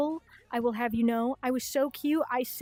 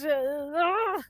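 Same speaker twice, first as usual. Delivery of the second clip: higher, drawn-out "ugh"; disgusted groan; 4 semitones higher, 3 dB louder than usual. Real, not acted. Streamer recoiling from friction on their skin, disgusted groan. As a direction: groan at an unpleasant feeling.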